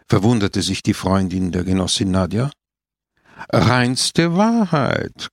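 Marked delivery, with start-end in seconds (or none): 3.5-5.3 slow, sincere and a little higher; earnest, drawn-out agreement; sincere admission. A narrator's reading. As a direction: stretch it out like an honest confession. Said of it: "gab Don Camillo ehrlich zu".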